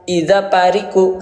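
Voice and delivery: Iza pariku said quickly with p and short vowels; wrong reading. Shown as a demonstration. Teacher showing learners a wrong reading. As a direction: rush through Iza pariku as a mistake.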